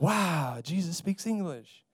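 low, mock-amazed listener; mock awe. Listener marvels at movie Jesus, low mock awe. Imagined awed moviegoer in congregation.

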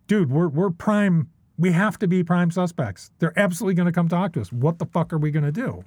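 mildly panicked, pitch lifted; retold panic. Telling a friend they'll be prime suspects, mildly panicked. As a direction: replay a worried rush of alarm, lightly. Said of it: "so now we're panicking, going".

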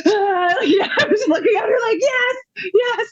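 high, teary and breaking with a laugh; half laughing, half crying with joy; choked up. Real, not acted. Overwhelmed mouthing yes to daughter.

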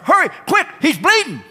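high, panicked plea for help on the phone; frantic caller. Retold or imitated. Woman on the phone to 911 about his nosebleed, high, panicked and pleading. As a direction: squeal it out like a frightened woman begging for an ambulance.

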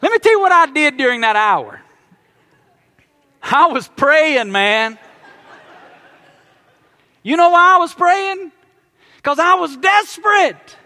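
loud, urgent pulpit storytelling; preaching at full force. Acted. Pastor telling his congregation about the stuck elevator, preaching loud.

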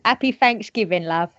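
Cockney with dropped H and "f" for "th"; playful Cockney London accent. Shown as a demonstration. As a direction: put on your best Cockney London greeting. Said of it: "in my Cockney London accent".

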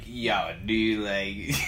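put-on slurred drunk. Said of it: "you sounded like you were, like, half snake".

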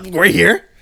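laughing. Real, not acted. Resigned at burnt ribs, laughing.

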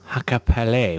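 "Hakkapeliitta" shortened, ending in lay; mispronounced Finnish name. Shown as a demonstration. Host unsure of the module name, "Hakkapeliitta" ending in lay. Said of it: "which I never say correctly".

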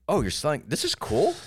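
high, delighted put-on voice; mock excited shopper. Shopper at a garage sale, high mock delight. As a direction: gush over a find in a high voice. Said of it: "You're like".

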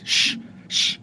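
whispered shush to calm a dog. Real, not acted. Player hushing the angry dog, whispered shush. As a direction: hush the dog softly.

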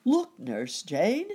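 high, loud, slow call; excited cry. A narrator's reading. Rabbit showing Nurse Jane his lanterns, excited slow call. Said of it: "cried Uncle Wiggily".

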